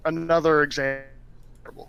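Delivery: glitchy, slowed robotic audio. Real, not acted. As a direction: voice breaking up like a bad connection. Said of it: "You really do sound like a robot".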